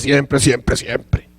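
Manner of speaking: fading to a whisper. Acted. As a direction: drop low and soft, then breathe the last siempre. Stressing God's careful record.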